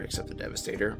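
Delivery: quick hushed aside; whispered aside. Real, not acted. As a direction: slip it in under your breath. Whispered aside about one weapon.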